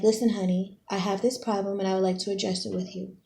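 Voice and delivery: calm, adult. Acted. Reader modelling a grown-up talk with a partner, calm and adult. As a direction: raise the problem quietly and politely. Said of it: "talk about it like adults".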